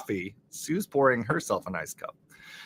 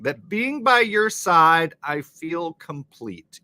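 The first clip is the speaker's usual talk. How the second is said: mock romantic reading; 5 semitones higher, 4 dB louder, slower than usual. Reading love song lyrics aloud.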